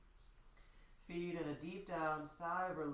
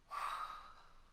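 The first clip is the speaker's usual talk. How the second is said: breathy sigh; 4 dB quieter than usual. Shown as a demonstration. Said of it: "with a yawn".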